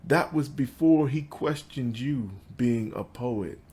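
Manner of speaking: measured recital with pauses between phrases; poetry reading. Acted. Poet reads to an audience about his father, measured poetry recital. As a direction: lift the line openings, let the endings fall away. Reads own poem aloud.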